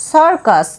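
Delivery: সার্কাস as circus, teacher's model; model word said clearly. Shown as a demonstration. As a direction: say সার্কাস slowly and clearly for pupils. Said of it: "উচ্চারণটা হবে সার্কাস".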